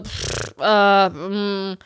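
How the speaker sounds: low, hesitant puff and hum; retold reluctant hesitation. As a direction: stall unwillingly with a puff and a hum. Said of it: "hab ich eigentlich gar keinen Bock drauf".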